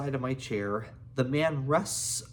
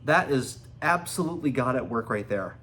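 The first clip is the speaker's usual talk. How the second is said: amazed; 3 dB louder than usual. Real, not acted. Reader moved by the story.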